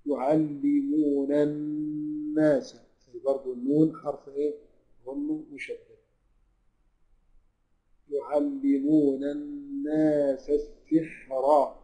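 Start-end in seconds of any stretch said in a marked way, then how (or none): 0.1-2.8 slow chanted tajweed recitation; Quran recitation. Shown as a demonstration. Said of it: "Quran recitation demo". 8.1-11.8 slow chanted tajweed recitation; Quran recitation. Shown as a demonstration. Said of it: "بوصلها مفتوحة".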